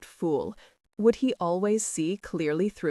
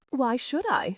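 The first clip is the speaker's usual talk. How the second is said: a quick, higher snapped retort; sharp snap; 6 semitones higher than usual. Acted. Wife snapping back at her teasing husband, higher-pitched. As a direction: snap it straight back at him. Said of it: "she snapped".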